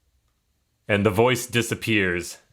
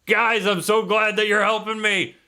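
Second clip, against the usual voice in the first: Grim's voice; 11 semitones higher than usual. Acted. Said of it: "And you hear a voice".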